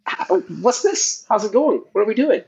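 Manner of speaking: warped high-pitched digital voice; garbled pitch-shifted call audio; glitchy jumping pitch. Real, not acted. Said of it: "Why do we sound so weird?".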